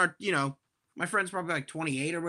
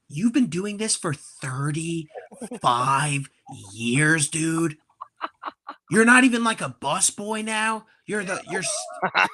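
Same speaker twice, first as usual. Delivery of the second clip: mock disbelief. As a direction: sneer back at the attendant in disbelief. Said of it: "in my head, I'm like".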